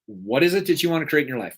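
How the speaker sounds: brisk restatement of the question. Shown as a demonstration. To the audience, quickly repeating the question.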